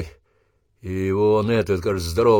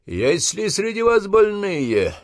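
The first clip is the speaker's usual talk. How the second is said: drawn-out shout; 11 semitones higher, slower than usual. Acted. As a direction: stretch the question over the line. Sergeant asks recruits.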